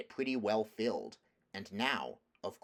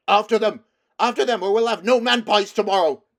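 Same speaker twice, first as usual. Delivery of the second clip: loud, high, booming roar; a giant king bellowing the chase; 12 semitones higher, 18 dB louder than usual. Acted. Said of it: "the king's voice roaring out".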